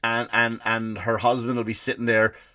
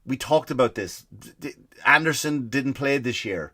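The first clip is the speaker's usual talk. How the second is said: curt husband; 2 semitones higher than usual. Retold or imitated. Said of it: "the guy's just a dick, and he'll get short".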